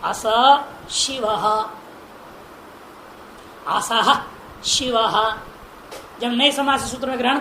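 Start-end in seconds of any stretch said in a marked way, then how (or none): 0.0-1.4 अस शिवः with a bare s, no h; without visarga. Shown as a demonstration. Teacher demonstrating the pronunciation when सु is dropped, अस शिवः without h. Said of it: "उच्चारण क्या होगा?". 3.7-5.1 असह शिवः with the h of the visarga sounded. Shown as a demonstration. Teacher demonstrating the correct visarga form, असह शिवः. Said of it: "विसर्ग हो जाएगा".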